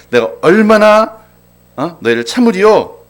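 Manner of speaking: loud, high, insistent scolding; forceful rebuke. Acted. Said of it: "강하게 심어주려고 하시는 거죠". (강하게 다그치는 높고 큰 목소리)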